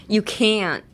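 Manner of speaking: CAN'T with a clinging, drawn vowel and silent t; sticky can't. Shown as a demonstration. Teacher showing the nettori quality, clinging can't. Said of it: "bit moreねっちょり".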